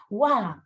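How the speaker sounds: imitating a toddler saying Guau for agua; child's mispronunciation. Toddler asking for water, childlike Guau. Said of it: "te dice".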